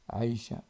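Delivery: "Aïcha" opened with a throaty ayn catch; teacher pronounces the name "Aïcha" with a real ayn; Arabic ayn. Shown as a demonstration. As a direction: squeeze the throat before "Aïcha". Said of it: "Aïcha, c'est un prénom".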